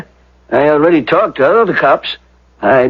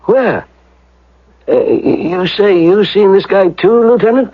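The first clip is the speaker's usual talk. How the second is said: alarmed surprise; 8 semitones higher than usual. Acted. Manager alarmed when the lieutenant says he saw the man, nervous rising surprise. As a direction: caught off guard, voice climbing up and up.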